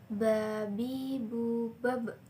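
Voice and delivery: "babi, bu, bab" with lips closed firmly on each b; lips pressed together. Shown as a demonstration. Teacher giving examples of the letter Ba, lips pressed together. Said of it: "caranya dengan merapatkan kedua bibir".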